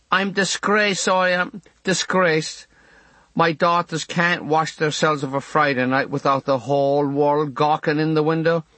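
indignant neighbour woman. Acted. Missus Dooley voiced.

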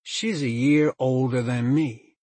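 offended. A narrator's reading. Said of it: "Okello scowled, looked offended".

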